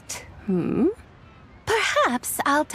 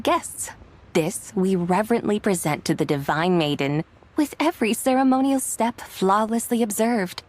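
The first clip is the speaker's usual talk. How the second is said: poem recitation. Acted. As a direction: recite it like a sacred ritual verse. Continues reciting the ritual poem.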